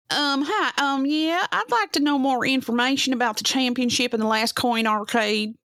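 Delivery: high put-on voice to fool her; disguised voice. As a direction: pitch it up to hide who you are. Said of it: "you can't fool me, Beck Maniac".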